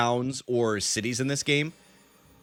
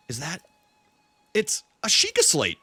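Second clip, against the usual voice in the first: timid, halting discovery; Paya; 5 semitones higher than usual. Acted. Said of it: "my name is Paya".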